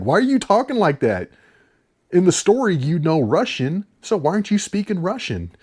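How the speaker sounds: hammed-up guard calling out the fake accent; guard scolding the spy for not speaking Russian; mock Russian guard.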